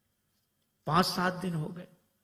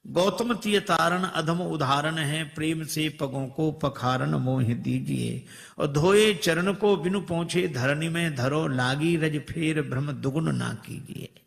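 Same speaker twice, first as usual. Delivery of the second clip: poem recital; 4 dB louder than usual. Acted. Reciting verse of boatman.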